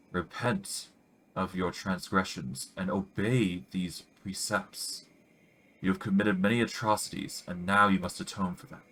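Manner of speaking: a hint of a throaty, accented priestess warning; solemn messenger, only lightly put on; lightly voiced priestess. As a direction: priestess with a faint strange accent. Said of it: "Her voice is throaty and hoarse".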